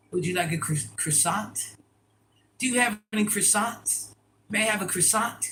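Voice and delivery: lightly put-on polite customer, lifting into a question; polite ordering practice. Customer asking for a croissant, rehearsed politeness.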